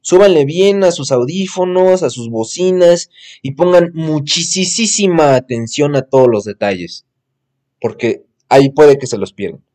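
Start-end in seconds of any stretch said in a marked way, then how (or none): 3.4-9.6 talking through hiccups; hiccuping mid-sentence. Real, not acted. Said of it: "Ay, perdón, me dio hipo".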